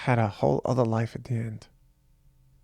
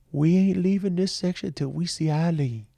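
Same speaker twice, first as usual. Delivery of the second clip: a higher put-on voice of a stubborn street guy; imitating a shelter guy; 5 semitones higher than usual. Son recalling a homeless man's words at the parade, mild imitated voice. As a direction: lightly voice the guy who won't budge. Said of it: "I don't know what accent that was".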